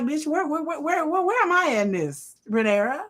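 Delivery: high, loud, near tears, pleading; mock anguished Alicent. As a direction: wail it like a jilted lover. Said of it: "Alicent's just like".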